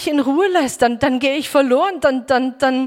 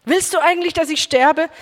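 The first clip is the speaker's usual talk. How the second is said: high, raised retold cry; crying out to God; 5 semitones higher than usual. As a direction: repeat the desperate question up at God. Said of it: "Und dann habe ich geschrien".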